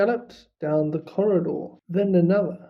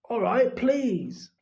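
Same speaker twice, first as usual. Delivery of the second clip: grudging caretaker; 5 semitones higher, slower than usual. Acted. Filch voiced, grudging.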